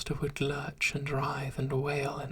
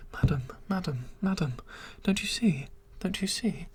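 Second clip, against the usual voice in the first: pleading creature. Acted. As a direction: beg her to understand, breathless with longing. Creature proposing, begging desperately.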